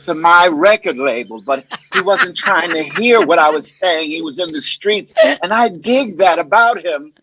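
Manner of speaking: lightly voiced, slow actor impression; Terrence Howard. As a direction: draw it out, savoring your own story. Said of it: "impressions; Terrence Howard".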